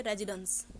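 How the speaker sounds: "रेजिडेंस" ending in a weak uhns. Shown as a demonstration. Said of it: "ये अंस का sound आता है आपका पीछे".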